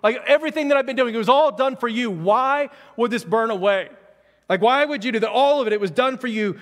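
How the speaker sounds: man in a field begging God after his work burned; pleading cry to God. Acted. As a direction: cry out to God in grief, pressing harder. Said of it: "he cries out".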